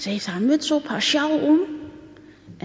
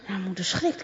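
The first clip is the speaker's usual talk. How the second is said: plain reading voice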